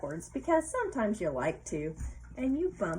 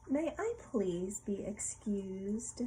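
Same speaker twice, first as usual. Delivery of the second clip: whisper; 4 dB quieter, slower than usual. Acted. Reading the polite answer.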